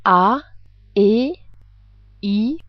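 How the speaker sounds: vowels said while gargling water. Shown as a demonstration. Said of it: "While you're gargling".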